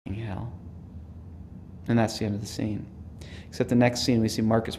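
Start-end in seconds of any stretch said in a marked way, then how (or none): 0.1-0.5 quiet, understated sympathy; empathetic. Retold or imitated. Will turns to Marcus with sympathy, softly empathetic. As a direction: say it softly, as retold fellow feeling. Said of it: "with this great kind of empathetic".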